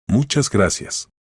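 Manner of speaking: slow, drawn-out thanks with a lighter touch; slow, grateful exhaled thanks. A narrator's reading. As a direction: let the thanks out slowly, moved. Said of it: "exhaló Beatriz".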